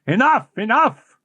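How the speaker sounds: lightly voiced anguished young man; cried out. A narrator's reading. Raoul begging Christine to stop her story, agitated. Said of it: "cried Raoul".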